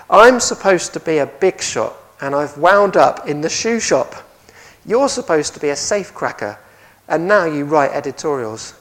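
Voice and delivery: put-on loud, emphatic grumbling in own English accent; quoted Al Capone. Preacher quoting Capone to his cellmate, loud indignant complaint. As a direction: complain forcefully as the crime boss. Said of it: "Capone told his cellmate one evening this".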